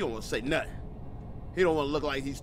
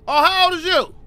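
excited question; 9 semitones higher, 6 dB louder than usual. Real, not acted. Greets a child in the game.

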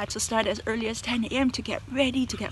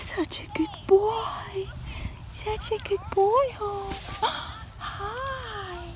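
high, soft cooing to a pet; gentle high cooing voice; 6 semitones higher, 8 dB quieter, slower than usual. Real, not acted. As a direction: coo at him tenderly. Cooing softly to parrot.

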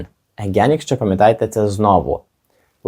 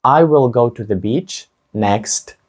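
slow and clear, word by word; slow model sentence; much slower than usual. Shown as a demonstration. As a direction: model it slowly for the class. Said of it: "спробуйте сказати".

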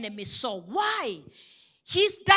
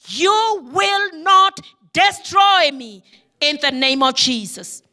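defiant rebuke; 6 dB louder than usual. Acted. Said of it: "look at him in the eye and tell him".

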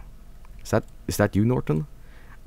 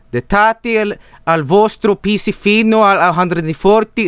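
raised-pitch, hammed-up Italian accent; mock Italian accent; 7 semitones higher than usual. Streamer reading an Italian software title, mock Italian accent. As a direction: read it out in a fake Italian accent. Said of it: "just talk with an accent".

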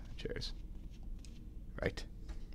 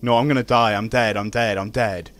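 loud despair; 6 dB louder than usual. Real, not acted. Dying in game.

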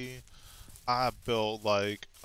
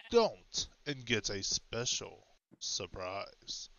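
fireside storytelling. Shown as a demonstration. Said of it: "get into my storytelling voice".

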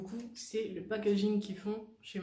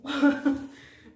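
brief, loud burst of laughter; short laugh; 4 semitones higher, 10 dB louder than usual. Real, not acted. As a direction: let out a quick, higher laugh. Laughs at own remark.

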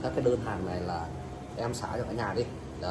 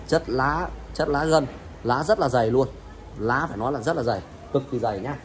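loud, pushy sales pitch; hard sell ad; 4 dB louder than usual. Real, not acted. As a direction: hype up the thick leaves. Livestream pitch of leaf quality.

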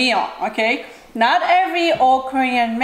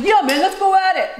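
higher, louder macho reply; mock tough guy; 8 semitones higher, 3 dB louder than usual. The other guy accepting the fight, higher mock macho voice. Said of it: "the other one's like".

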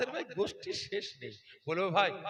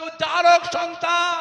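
even louder, higher and slow, word by word; slower, louder repeat; 12 semitones higher, 18 dB louder, slower than usual. Shown as a demonstration. Preacher repeating Allah's words to the crowd, slow and louder. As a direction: hammer each word home. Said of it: "জারক সন্তানের বাংলা কি ভাই?".

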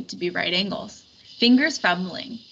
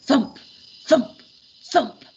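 thumping; 5 semitones higher, 6 dB louder, slower than usual. A narrator's reading. Footsteps of a monster.

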